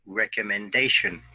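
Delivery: "recommendation" with the stress on DA: rec-om-men-DA-tion; "recommendation" modelled for students, DA stressed; model word stress. Shown as a demonstration. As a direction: say "recommendation" clearly and hit the fourth syllable DA. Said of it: "listen and repeat after me".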